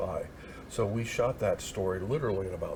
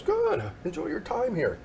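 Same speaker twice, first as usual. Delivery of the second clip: imitating the president; 12 semitones higher than usual. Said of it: "And he goes".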